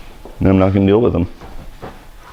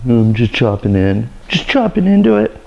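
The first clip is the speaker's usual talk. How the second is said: mocking quote; 2 semitones higher than usual. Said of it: "I hate when people say that".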